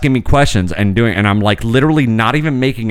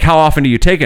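mock nurse; 4 semitones higher, faster than usual. Nurse asks, mocked higher.

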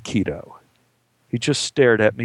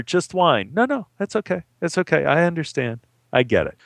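mildly patronizing small talk; feigned polite interest, lightly condescending; mock condescending. Someone quizzing a waiter about his job, mildly condescending.

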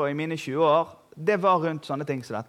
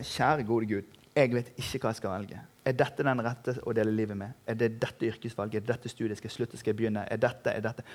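lav, dempet bønn; be stille som en som tviler; tvilende bønn; 7 semitones lower, 6 dB quieter than usual. Acted. Voices an uncertain believer's prayer. (stille, spørrende bønn til Gud)

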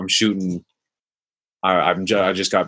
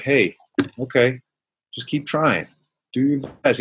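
gently encouraging, a little higher; loving inner voice; 4 semitones higher than usual. Retold or imitated. Self-talk as a loving friend, lightly encouraging. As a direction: talk to yourself the way love would. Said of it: "love would probably be like".

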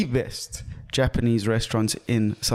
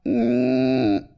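mosquito whine. Acted. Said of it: "you sound like my mosquito impression".

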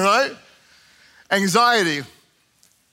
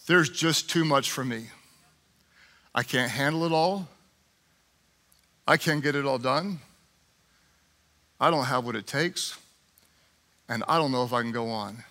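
overwhelmed quiet prayer; 8 semitones lower, 6 dB quieter than usual. Acted. Pastor voicing a weary believer, soft and worn out. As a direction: speak it like a tired confession.

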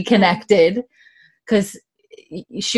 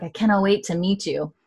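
softer, sincere quote; retold tender seriousness; 5 dB quieter than usual. Father to his unborn baby, softly serious. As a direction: drop the joking and mean it gently. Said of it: "he gets serious".

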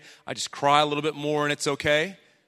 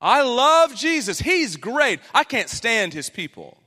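mock churchgoer; 5 semitones higher, 6 dB louder, slower than usual. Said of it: "so many people say".

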